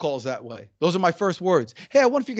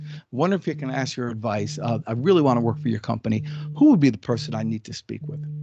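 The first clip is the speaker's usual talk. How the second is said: low, lowered voice; 6 semitones lower than usual. Speaker showing how to ask someone for advice about a job, in a lowered voice. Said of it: "you see how you lower your voice when you say it like that".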